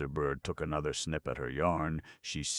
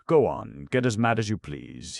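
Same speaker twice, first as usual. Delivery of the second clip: high, loud cheerful coaxing; cheerful urging; 7 semitones higher, 9 dB louder than usual. A narrator's reading. Urging the angry queen on, cheerful. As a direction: egg her on gladly. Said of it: "he urged cheerfully".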